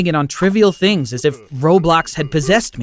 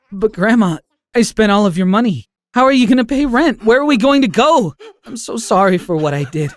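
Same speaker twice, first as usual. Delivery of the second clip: tearful pleading; 7 semitones higher, 4 dB louder than usual. Acted. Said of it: "mumbling through my tears".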